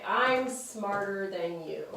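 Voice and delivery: slow, evenly stretched words; slow dictation. Shown as a demonstration. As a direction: say it slowly as you write it up. Puts the sentence up in writing.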